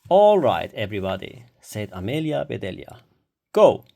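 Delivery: loud call to start the game. A narrator's reading. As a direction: call the whole yard to go. Teacher calling children to start.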